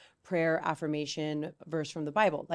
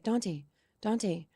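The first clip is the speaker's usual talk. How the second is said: lightly voiced child checking on a sibling, pitched up; a hint of worried questioning, higher towards the end; concerned big brother; 5 semitones higher than usual. Older son calls down from the top bunk to his crying brother, concerned.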